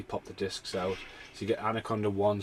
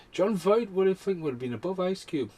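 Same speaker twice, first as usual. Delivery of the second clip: incredulous; 10 semitones higher, 4 dB louder than usual. Real, not acted. Indignant about billing order.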